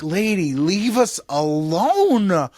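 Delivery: slow, drawn-out tired plea; slow weary plea to a nagging politician. Retold or imitated. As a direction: beg her to go away, worn out. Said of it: "And you're like".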